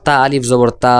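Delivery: final তা stretched out evenly; long madd vowel. Shown as a demonstration. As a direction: spell the letters, then hold the last তা. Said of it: "এইভাবে".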